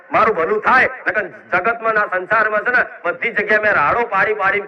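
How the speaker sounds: loud, impassioned sermon voice, crying out the devotee's lament; fervent preaching. Acted. Goddess speaking to her devotees, loud and impassioned. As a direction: preach it at full force, voicing the despair.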